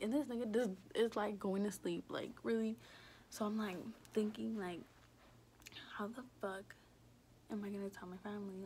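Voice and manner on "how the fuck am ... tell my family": whispered worry, rushing on; hushed and fast, scared; new mom wondering how to tell family; panicked whisper. Retold or imitated. Panicked inner thought.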